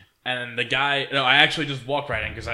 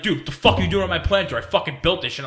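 raised, higher voice of an irate bouncer; imitated yelling; 5 semitones higher, 4 dB louder, faster than usual. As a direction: retell the bouncer's yell, fast at first. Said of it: "yells at me, he's like".

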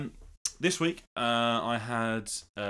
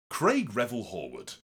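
Craig Revel Horwood voice; 2 semitones lower than usual. Retold or imitated. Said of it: "Do the voice again".

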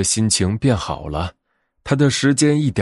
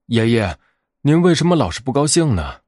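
curious little bear to grandpa; bear cub asking; 2 semitones higher than usual. Acted.

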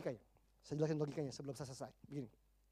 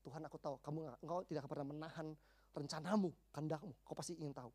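quiet prayer; 3 semitones lower, 5 dB quieter, faster than usual. Acted. Believer's humble prayer quoted.

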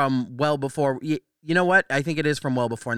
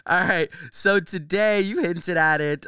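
voice cracking; slower than usual. Real, not acted. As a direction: voice cracks mid-sentence. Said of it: "my voice just cracked".

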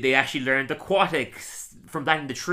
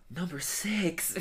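clickbait video narrator; 5 semitones higher, 7 dB quieter, much slower than usual. Acted.

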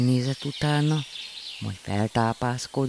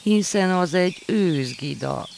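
amused laugh; 7 semitones higher, 3 dB louder than usual. A narrator's reading. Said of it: "nevetett Manó apu".

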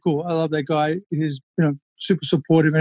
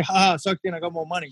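mock gloating; 5 dB quieter than usual. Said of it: "my little fucked up part of my brain that went".

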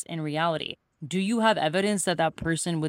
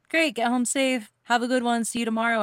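higher-pitched, breezy goodbye; imitated easygoing coworkers; mock friendly send-off; 6 semitones higher than usual. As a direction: wave them off without a care.

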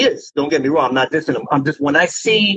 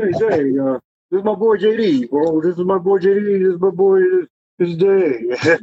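lightly voiced friend, stretched and a bit higher at the end; a loose take on how his buddy talks, slowing at the finish; imitating his friend's talk; 3 semitones higher than usual. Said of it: "You know how he talks".

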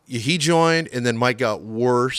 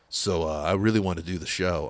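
imitated super deep voice, lower; Mike; 4 semitones lower, 3 dB quieter than usual. Singer asking to do the show, super deep voice. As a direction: drop into a low, deep-voiced impersonation. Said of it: "it's a super deep voice".

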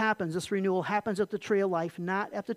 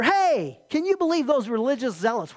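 raised, incredulous tempter's voice; Satan goading Jesus; 3 semitones higher, 4 dB louder than usual. Acted. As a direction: lightly act an outraged instigator. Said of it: "Satan lied to, to Jesus".

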